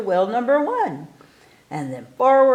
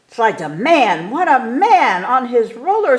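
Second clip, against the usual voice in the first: excited announcer shout; 4 semitones higher, 5 dB louder than usual. A narrator's reading. Announcing a daring stunt.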